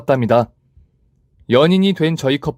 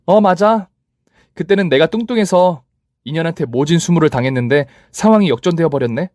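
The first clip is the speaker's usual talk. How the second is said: higher, satisfied gloat; 4 semitones higher than usual. Acted. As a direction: savour the reversal. Narrator gloats. (우쭐하게 말하는 주인공)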